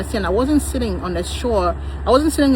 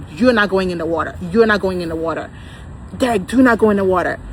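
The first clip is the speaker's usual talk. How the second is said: mock yell, a bit louder, warning Derek off; retold yelling at husband; 4 dB louder than usual. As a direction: replay the panic as a firm call to the water. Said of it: "I was screaming".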